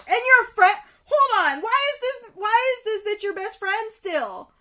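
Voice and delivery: high, loud indignant sputtering; outraged disbelief. Real, not acted. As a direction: demand answers, breaking off in outrage. Outraged at the best friend.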